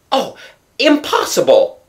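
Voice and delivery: a moaned, disbelieving protest; anguished moan. A narrator's reading. Raoul hears his brother took Christine, moaning in dismay. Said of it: "Moaned Raoul".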